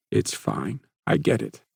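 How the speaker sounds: a touch of strained tension; strained voice, hiding pain; tense and strained. Acted. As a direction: hold back the hurt. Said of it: "tension climbing in his voice".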